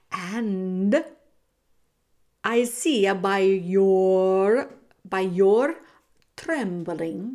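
halting, drawn-out rat voice with long pauses; sly rat playing with his prey; theatrical rat villain. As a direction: relish and stretch the words mockingly. Rat mocks the trembling mouse.

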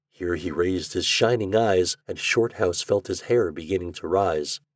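low, measured storybook reading; story narration. A narrator's reading. Narrator sets the fireside scene, measured story narration. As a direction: read the tale in an even, subdued tone.

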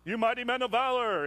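voice of God. Retold or imitated. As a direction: announce it like a declaration. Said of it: "God said".

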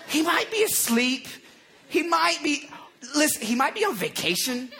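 mock-sympathetic needling; teasing, pitch bobbing up on each jab; trash talk. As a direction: act out a taunter feigning helpful excuses. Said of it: "I like Elijah's talking trash".

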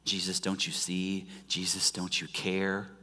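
soft, low, hushed appeal to Jesus; a believer quietly questioning Jesus; quiet plea. Acted. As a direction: whisper your doubt like a private prayer. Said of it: "has that been your response".

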